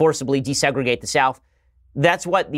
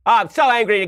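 higher, louder hammed-up fury; mock anger; 8 semitones higher, 4 dB louder than usual. Commentator mocking a TV host, hammed-up anger. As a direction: overplay the outrage to mock him. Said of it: "come in all angry".

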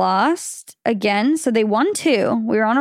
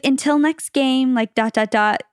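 passive-aggressive; 3 semitones higher than usual. Retold or imitated. Rival fan signing off her message, passive-aggressive. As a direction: imitate a rival fan's pointed little jab. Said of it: "so passive aggressive".

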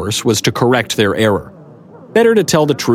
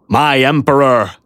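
bewildered, halting knight voice; abashed knight; 4 semitones higher than usual. A narrator's reading. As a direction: say it in stunned embarrassment. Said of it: "staring in abashed bewilderment".

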